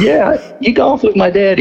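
imitated naive insistence, high voice; insistent repeat. Repeats it to baffled caller.

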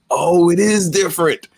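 high-pitched, surprised realization; mock astonishment. Listener retelling hearing his friend's King's English, mock astonishment. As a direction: act out a high, amazed discovery.

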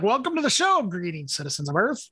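lightly voiced alien overlord greeting; a hint of a grand alien ruler; booming arrogant alien overlord. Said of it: "And then I'm gonna be like".

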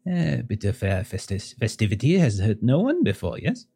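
put-on gracious host with a French accent; lightly French-accented hostess, unhurried. GM voices the host's wife.

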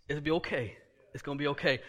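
hushed, gentle comfort; quiet reassurance to a worried man; soft soothing. Acted.

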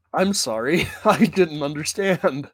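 phone menu voice. Acted. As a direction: talk like a patient robot menu. Automated menu error reply.

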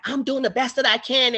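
mild mock passive-aggressive nurse. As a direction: imitate a curt, passive-aggressive reply. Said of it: "very passive aggressive".

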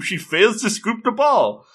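high-pitched play-by-play call; mock sportscast; sports commentary. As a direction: announce the fumble like a match commentator. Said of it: "we're having the commentary action".

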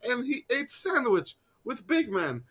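high-pitched broken English voice; broken English impression. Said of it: "doing an impression".

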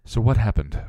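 loud, commanding demand for answers; firm, forceful questioning; ordering. A narrator's reading. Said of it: "Buffy ordered".

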